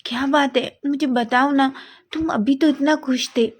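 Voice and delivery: pleading. Acted. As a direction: coax him to talk, pitch up. Wangji pleading with upset Wing.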